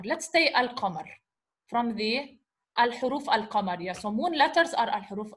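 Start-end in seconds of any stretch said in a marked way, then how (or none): 0.5-1.1 "al-qamar" with the L sounded; L pronounced. Shown as a demonstration. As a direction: say "al-qamar", L fully voiced before the Q. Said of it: "you pronounce the L".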